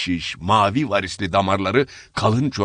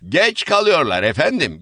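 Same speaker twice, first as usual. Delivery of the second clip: raised, higher angry complaint; shouting woman; 9 semitones higher, 4 dB louder than usual. Acted. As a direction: shout it at the latecomers. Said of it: "diye bağırdı".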